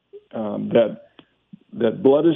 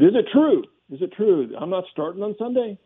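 livid outburst; 8 semitones higher than usual. Retold or imitated. Young linebacker confronting his coach, high indignant disbelief. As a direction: pitch it up like an indignant young player. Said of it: "I just got furious".

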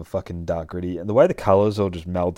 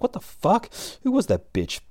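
a shrill-high outraged what the fuck; outraged disbelief; 13 semitones higher than usual. Acted. Blonde prostitute losing a client, high outraged squeal.

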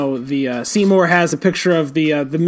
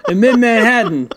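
higher mock tough-cop voice, laughing through it; noir detective; 5 semitones higher than usual. Host voicing the detective mocking Dan, laughing noir cop. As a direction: taunt the owl man like a hardboiled cop. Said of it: "that's exactly how he sounds".

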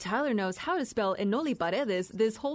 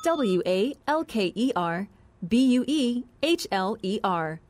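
spelling it out. Shown as a demonstration. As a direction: correct spelling read letter by letter. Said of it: "Walker Buehler".

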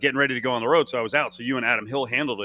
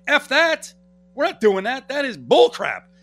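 higher, louder mock outrage; indignant agent; 12 semitones higher, 6 dB louder, slower than usual. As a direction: act out an agent flatly refusing. Retold agent angrily refusing the idea.

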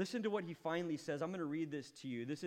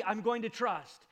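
loud, pleading, voice raised high; impassioned cry; 6 semitones higher, 7 dB louder than usual. Acted. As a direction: cry it out like a desperate man. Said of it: "he says".

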